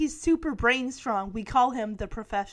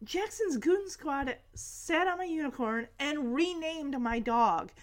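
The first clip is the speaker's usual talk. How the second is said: softer mock tattling; understated imitation of an indignant kid; softer retold complaint; 6 dB quieter than usual. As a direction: repeat the kid's complaint more quietly. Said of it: "Max is like".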